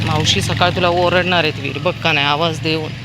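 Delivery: loud warning to a mischievous dog; scolding the dog. Real, not acted. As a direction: warn him the sweeper will shout.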